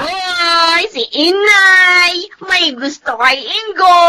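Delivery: teasing call-out. Acted. Daughter teasingly calls out mother.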